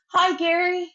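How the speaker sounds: bright, high friendly hello; cheerful greeting. Acted. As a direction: call out a breezy hello to an old friend. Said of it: "and she says".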